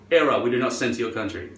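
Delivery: low, quick automated notice; website error message. Retold or imitated. Website refusing the shopper, low quick error voice. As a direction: read it out like a curt error. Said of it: "And it says".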